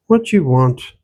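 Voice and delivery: light Irish lilt mixed with Ottawa Valley; old country woman with an Irish-Ontario accent; a hint of an Irish-Valley accent; Irish-tinged rural Ontario accent. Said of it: "The accent she spoke with ... Irish, but not entirely".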